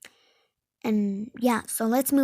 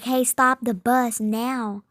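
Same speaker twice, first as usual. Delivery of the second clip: urgent order; 5 dB louder, slower than usual. Retold or imitated. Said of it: "she was scared".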